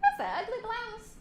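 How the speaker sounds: high, loud mock taunt; woman teasing a friend, high and mocking; catty remark. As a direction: needle her playfully. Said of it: "and Jackie says".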